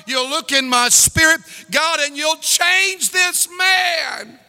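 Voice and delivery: prayer building to a loud, pleading shout; rising altar-call prayer; fervent prayer. Acted. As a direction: cry out to God for this man. Preacher leads a prayer.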